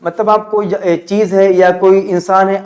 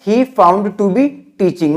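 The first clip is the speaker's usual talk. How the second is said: slow model sentence; much slower than usual. Shown as a demonstration. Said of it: "इसे use करेंगे तो क्या बोलेंगे?".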